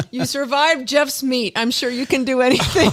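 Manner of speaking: laughing. Real, not acted. Reads funny comment while laughing.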